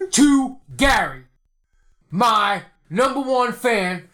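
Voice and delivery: wrestling promo. Pretend. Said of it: "cut a promo on Joe Walsh and his book".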